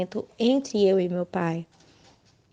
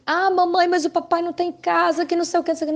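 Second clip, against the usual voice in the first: put-on high whiny child asking, much higher; mother mimicking her child's complaint in a higher voice; 7 semitones higher, faster than usual. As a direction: play the little kid pleading for daddy.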